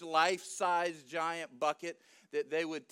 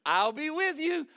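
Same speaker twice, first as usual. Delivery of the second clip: high, loud proclamation; bold promise; 7 semitones higher, 5 dB louder than usual. Acted. Angel ignoring Gideon's protest, high loud promise. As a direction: announce it brightly over objections.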